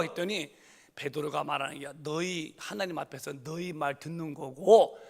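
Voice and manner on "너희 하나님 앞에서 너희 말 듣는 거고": bold shout. Retold or imitated. Peter shouts his answer back at the authorities. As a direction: fling the answer back boldly.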